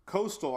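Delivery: coastal said slowly and firmly, as its own word; stress on coastal. Shown as a demonstration. Forecaster stressing the coast to viewers, coastal given weight. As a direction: lean hard on coastal as a one-word warning. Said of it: "I keep stressing the word coastal".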